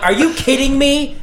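high-pitched incredulous outburst; mock-outraged squeal of disbelief; retold disbelief. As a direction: re-enact the shock, voice shooting way up. Retold shock at broken guitar.

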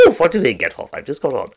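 high, hammed-up comedian impression; Ken Dodd. Impressionist refusing to stop being Ken Dodd, hammed-up. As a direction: keep up the silly high comic voice. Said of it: "about Ken Dodd".

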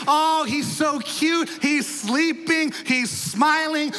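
slightly exaggerated cooing over a baby; mock gushing. Preacher mimicking people admiring baby Jesus, mock gushing. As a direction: coo slowly, drawing out the key words.

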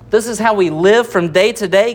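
"live" made the prominent word of the phrase; stress on live. Shown as a demonstration. Preacher explaining the author's focus, stress on live. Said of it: "putting his focus on the word live".

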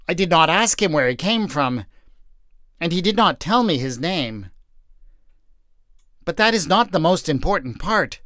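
wife, firm. Acted. Wife telling the message.

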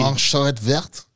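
slow, German-accented French; French words with a careful German ring; German-sounding French. Real, not acted. Repeating the owl's French name, German-sounding accent. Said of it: "you said it like you were German".

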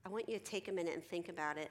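mildly softened, sincere reassurance; genuinely caring. Acted. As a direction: say it sincerely, without pressure. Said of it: "if I'm genuinely saying".

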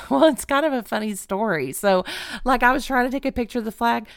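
retold nervous laugh into explanation. Traveler explains herself to customs officer, laughing it off. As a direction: try to laugh off an awkward story. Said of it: "Trying to laugh it off".

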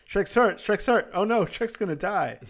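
hammed-up freaking out; mock panic. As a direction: flap about like a frantic donkey. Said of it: "Donkey starts freaking out".

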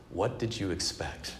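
retold in a calm, unhurried voice; calmly quoting a mother's counsel; calm motherly reply. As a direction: let each phrase land gently, with long pauses. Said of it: "she said very calmly".

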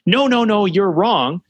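swat the other person's point away in a lightly hammed-up way; dismissive contradiction. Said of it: "Instead of trying to say".

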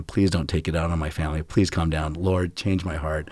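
hushed, pleading prayer under the breath; a father begging himself to stay calm in the car; quiet prayer. Retold or imitated. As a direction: pray softly to yourself, gripping the wheel. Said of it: "just going".

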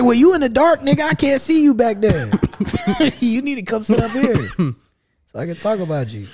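excited retelling. Retold or imitated. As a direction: toss the line back up, laughing. Retelling his onstage reply.

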